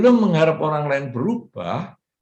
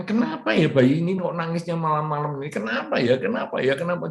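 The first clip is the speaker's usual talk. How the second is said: stressed mother; 4 semitones higher, faster than usual. Retold or imitated. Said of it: "Jadi stres".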